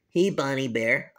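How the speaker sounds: low cartoon kid hello. Kid characters each greet Bonnie.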